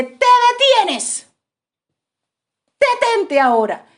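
sharp, loud order to stop; commanding shout. Retold or imitated. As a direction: halt the attacker with authority. Ella detiene al preso armado. (orden firme y fuerte al preso)

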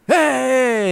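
loud, high mock "gotcha" yell; imitated startling shout. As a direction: shout it to make dad jump, retold. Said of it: "kept scaring the fuck out of his dad".

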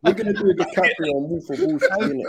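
laughing through the line; giggling as he jokes. Real, not acted. Laughing at own joke.

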